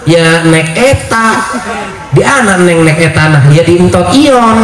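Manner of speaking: put-on "alan-alan" and "otak" with sounds dropped, childish; lisping baby talk. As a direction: coo it like a spoiled toddler. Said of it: "ngomongnya dicadel-cadelin".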